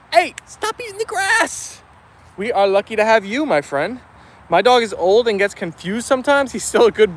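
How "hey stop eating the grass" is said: scolding the dog. Real, not acted. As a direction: break off to tell the dog to stop. Scolding dog mid-sentence.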